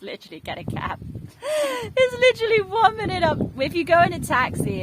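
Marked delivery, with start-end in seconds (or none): 1.8-4.8 fast, loud, very high squeaky voice; high-pitched protest. Real, not acted. Vlogger justifying a cab up the hill, squealed protest. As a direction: squeal the excuse, pitch shooting way up.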